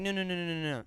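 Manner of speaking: lightly imitated Spanish-accented no's; a hint of her Spanish accent. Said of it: "then she's like".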